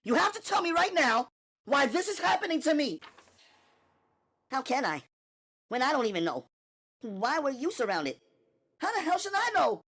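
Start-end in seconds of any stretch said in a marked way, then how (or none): 0.0-3.0 much higher and louder, insistent; demanding Natalie. Acted. Natalie to Gina, demanding loudly. 8.8-9.8 much higher, loud, rushing; panicked Natalie. Acted. Natalie to Gina, panicked shouting.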